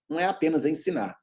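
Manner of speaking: quick whisper of "não é apenas ensinar"; whispered aside. Real, not acted. Teacher whispers a secret to the class, fast and hushed. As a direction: drop into a fast confiding whisper.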